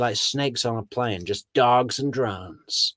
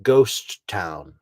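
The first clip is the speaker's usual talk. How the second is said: mock fake note-taking; 3 semitones lower, much slower than usual. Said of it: "pretending to write it down".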